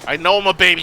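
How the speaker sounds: loud, high self-mocking whine; tearful whine. Real, not acted. Admits crying over the game.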